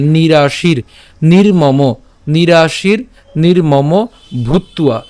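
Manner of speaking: "নিরাশির নির্মম ভূত্বা" in measured chunks; pronunciation demo. Shown as a demonstration. Teacher models "নিরাশির নির্মম" for learners, word by word. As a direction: close "নিরাশির" on r before "নির্মম". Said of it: "উচ্চারণ করে ফেললাম".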